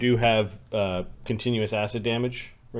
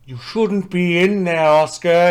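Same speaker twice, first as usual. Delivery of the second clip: very loud, high, weird layered multiple voices; 7 semitones higher, 8 dB louder than usual. Voicing a character who warns oscar: weird voice like several voices. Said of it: "he says with a weird voice".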